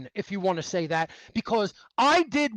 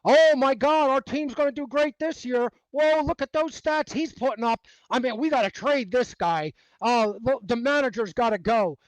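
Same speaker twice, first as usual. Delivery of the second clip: mock sports fan; 3 semitones higher than usual. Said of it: "And all you hear is".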